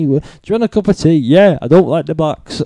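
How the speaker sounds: offhand imitation of a colleague; breezy, matter-of-fact mimicry; casual. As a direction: toss it out casually, as small talk. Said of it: "just drops it like, like it's not a problem at all".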